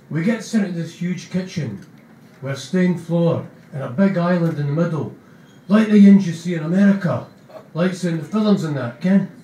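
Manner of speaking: chatty Scots narrator, gentle; Spud voice. Acted. Narrator Spud telling mates about the kitchen, lightly voiced. Reading Spud's narration in character.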